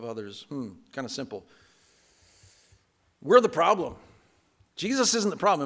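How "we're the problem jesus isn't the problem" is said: loud, higher emphatic declaration. Real, not acted. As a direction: declare it to the congregation, loud and raised.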